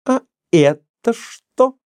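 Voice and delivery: high, drawn-out exclamation of triumph; triumphant. A narrator's reading. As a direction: exclaim it as a proud challenge, pitched high. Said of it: "С торжеством в голосе воскликнула она". (торжествующий возглас)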